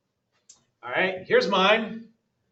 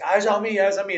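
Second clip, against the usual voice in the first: Jimmy V impression; 3 semitones higher, 6 dB louder than usual. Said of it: "he's like".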